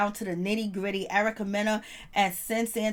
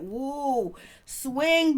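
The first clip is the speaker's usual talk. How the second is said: hyped cheer; 4 semitones higher than usual. Real, not acted. Cheering the diss.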